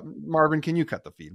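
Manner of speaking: playfully loud call to cut the feed; mock order. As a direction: bark it at Marvin in jest. Joking order to producer.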